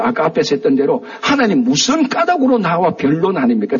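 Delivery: ordinary delivery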